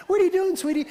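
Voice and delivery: imitated mom's greeting. Voices his mom greeting him.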